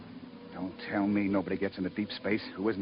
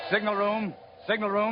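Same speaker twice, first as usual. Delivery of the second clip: calling out; 11 semitones higher than usual. Acted. Captain calling over ship intercom.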